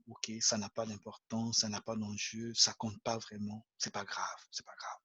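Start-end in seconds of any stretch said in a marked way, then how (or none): 1.6-5.0 fading to a whisper, gently; soft reassurance. Pretend. Teacher softly reassuring an imagined friend, whispering. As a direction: hush it down like calming a friend.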